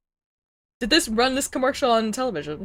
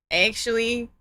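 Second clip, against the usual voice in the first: dramatic dying; 2 semitones lower, 4 dB quieter, much slower than usual. Pretend. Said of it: "Actually deceased".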